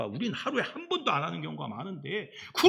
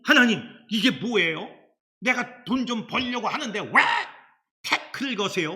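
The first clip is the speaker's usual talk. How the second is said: mock protest; 5 semitones higher, 4 dB louder than usual. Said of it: "항의를 해".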